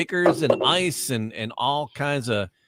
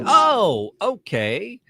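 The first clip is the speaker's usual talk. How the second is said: high, drawn-out "oh, okay" then slow; playfully mocking self, suggestible; mock dreamy realization; 3 semitones higher, much slower than usual. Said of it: "I'm like".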